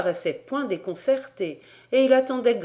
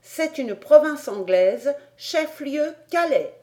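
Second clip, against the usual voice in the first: slow, higher-voiced pupil; lightly voiced schoolboy, calmly sure of his facts; tranquil reply; 7 semitones higher, 5 dB louder, slower than usual. A narrator's reading. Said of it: "répondit tranquillement Toliné". (élève tranquille et sûr de lui)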